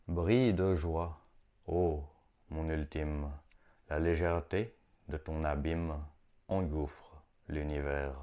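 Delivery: slow poem recital with long pauses; measured, contemplative recitation; poetry reading. Acted. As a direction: read it as mystical verse, phrase by phrase, voice sinking at line ends. Reads own poem aloud.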